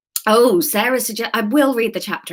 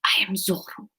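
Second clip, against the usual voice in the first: Antonio Banderas; 6 dB quieter than usual. Shown as a demonstration. Channelling a film star to find the accent, soft Spanish accent. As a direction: try a hushed Spanish swashbuckler accent. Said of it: "Antonio Banderas and Evita".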